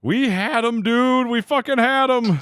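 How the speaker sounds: high, loud, anguished complaint; real dismay at the lost win; frustrated lament. Real, not acted. Streamer tells chat they had won, high and anguished.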